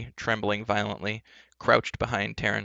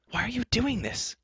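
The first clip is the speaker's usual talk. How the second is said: angry, powerless cry; 13 semitones higher than usual. Acted. Taryn to the enchantress, angry cry. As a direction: cry out high in helpless anger. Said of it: "cried with all the more anger".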